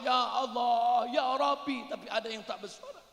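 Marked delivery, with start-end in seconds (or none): 0.1-1.9 praying aloud. Retold or imitated. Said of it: "Ada yang berdoa".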